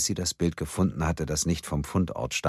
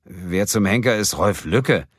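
louder, higher, baffled demand; baffled question; 4 semitones higher, 6 dB louder than usual. A narrator's reading. Kim asks about an unknown name, baffled.

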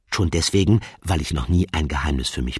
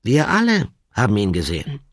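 eager bookling; 9 semitones higher, 6 dB louder than usual. Acted. Bookling calling his friends.

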